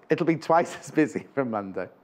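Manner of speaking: breaking into giggles mid-sentence; giggling. Real, not acted. Presenter warning viewers about busy schedule, giggling. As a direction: let the giggle creep in. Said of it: "I don't know why I'm giggling".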